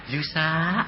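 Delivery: gentle divine call, imitated; drawn-out imitated heavenly summons; Satan mimicking Jesus. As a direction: call the name like a false Jesus. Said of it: "persis suaranya".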